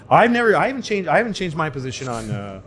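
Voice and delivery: a cornered politician stammering out a dodge; flustered stammer. Retold or imitated. Politician dodging a reporter's question.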